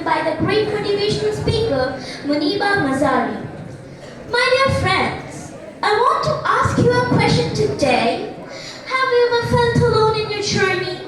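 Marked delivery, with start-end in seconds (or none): 4.3-11.0 slow, sing-song inspirational oratory; formal speech. Acted. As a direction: recite it like a school declamation. Declaims a motivational speech.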